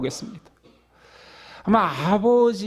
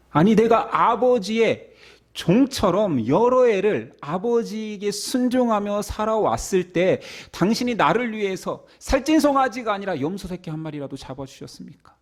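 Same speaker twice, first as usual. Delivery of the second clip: aggrieved protest; 3 semitones higher than usual. Retold or imitated. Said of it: "따지기 시작합니다".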